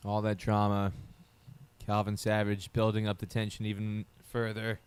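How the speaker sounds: flat, lifeless monotone commentary. Real, not acted. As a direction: drone it out with no energy at all. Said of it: "This is a very monotone voice".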